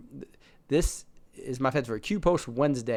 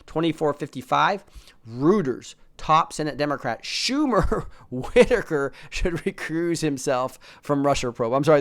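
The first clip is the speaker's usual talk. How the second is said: usual speaking voice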